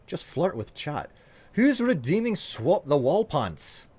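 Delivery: put-on Scottish accent for chat. Streamer getting ready to flirt with chat, Scottish accent. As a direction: play it as a slightly rusty Scot. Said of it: "a Scottish accent".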